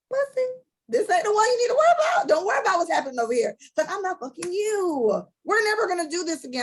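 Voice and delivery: fired-up retelling of yelling at an ex; retold heated comeback. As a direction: snap back at him hard, replaying the fight. Retelling a fight with her ex.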